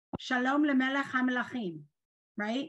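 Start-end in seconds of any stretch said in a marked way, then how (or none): 0.2-1.8 easy, flowing, run-together Hebrew with extra A after mem. Showing how a phrase sounds when said fast. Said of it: "because I said it fast".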